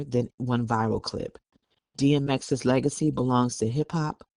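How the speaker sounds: measured news-report delivery; news read. Acted. Co-host reading a report on the family dispute, news read. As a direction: read the article out evenly.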